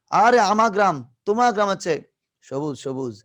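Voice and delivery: playful bragging to a classmate; boastful brag. Acted. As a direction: crow about your village to a friend. Acted boast of greener village.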